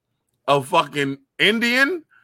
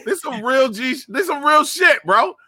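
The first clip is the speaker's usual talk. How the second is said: emphatic insisting; 10 semitones higher than usual. Real, not acted. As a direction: swear it's real, rising up. Insisting on his point.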